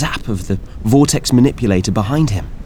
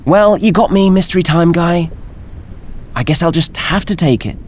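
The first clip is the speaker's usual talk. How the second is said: put-on high nasal young woman; 9 semitones higher than usual. Althea voiced, high nasal.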